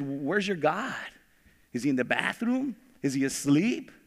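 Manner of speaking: teasing, sarcastic questions; lightly mock the rival prophets; mocking taunt. Elijah taunting the prophets of Baal, mild mockery. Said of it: "Elijah starts mocking him".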